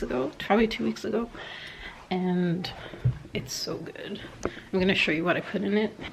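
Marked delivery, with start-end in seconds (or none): 3.3-4.2 whispering. Real, not acted. Raving about protein taste.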